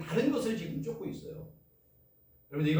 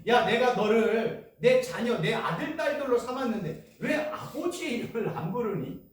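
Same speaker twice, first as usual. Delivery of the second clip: God's fatherly reproach; 3 semitones higher than usual. Retold or imitated. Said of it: "하나님이 그럴 거 아니겠어요".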